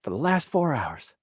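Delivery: lightly voiced impression of a rapper, playful; rapper-style ribbing. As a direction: rib the guy who never stopped working.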